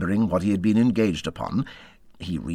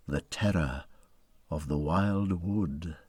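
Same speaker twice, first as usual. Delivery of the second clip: hushed dread; 5 semitones lower, 9 dB quieter than usual. A narrator's reading. Climax of dread in narration.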